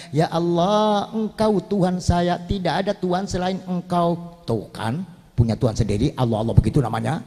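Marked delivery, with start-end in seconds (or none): 0.1-4.4 soft prayer. Acted. Asia praying softly.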